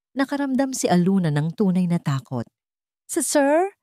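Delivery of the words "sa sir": a frightened, stuttered reply; stammering in fear. A narrator's reading. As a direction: stumble over the words, scared. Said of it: "Nauutal niyang sagot".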